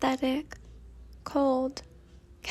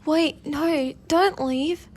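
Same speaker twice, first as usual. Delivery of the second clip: put-on louder, higher plea in a British accent; crying out; 3 semitones higher, 7 dB louder, much slower than usual. A narrator's reading. Fate begs Y N not to leave, crying out. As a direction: call out to stop someone leaving. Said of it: "Fate cried out".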